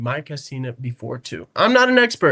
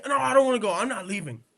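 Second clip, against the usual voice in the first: put-on whiny kid; 5 semitones higher, faster than usual. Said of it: "if he saw me".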